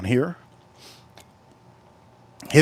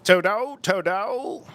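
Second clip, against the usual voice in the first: higher, rising "Toto, Toto"; mock Vietnamese accent; 5 semitones higher, slower than usual. Streamer imitating Vietnamese friends in a mock accent. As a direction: repeat "Toto" in the put-on accent. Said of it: "Vietnamese talk like that".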